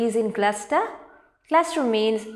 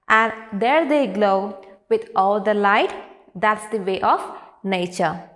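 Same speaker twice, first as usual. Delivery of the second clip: poem recitation; 3 dB louder than usual. Acted. Teacher reading a nature poem to grade three, poem recitation. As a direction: recite verse line by line, pausing after each. Reads poem stanzas aloud.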